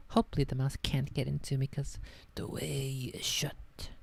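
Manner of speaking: mock solemn. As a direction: intone it like a grave ancient warning. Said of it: "quoting Tolkien lines".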